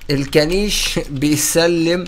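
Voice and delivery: slow, laughing through the words; laughing greeting. Real, not acted. Greeting the followers with the character, laughing slowly. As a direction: giggle as you say it. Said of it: "تعال نكلم متابعين بقى".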